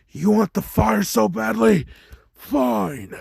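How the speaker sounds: high, loud enraged taunt. Retold or imitated. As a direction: spit it out in a rage. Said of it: "burns up with rage".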